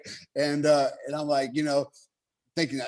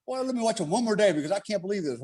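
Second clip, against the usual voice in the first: mock instructor doubt; 6 semitones higher, faster than usual. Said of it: "He's just walking".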